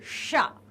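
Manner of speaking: "शा" as ष, tongue curled inward; retroflex sha. Shown as a demonstration. Teacher turning to third sibilant, retroflex "शा". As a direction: curl tongue back for "शा". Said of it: "अंदर को जीभ मुड़ेगी".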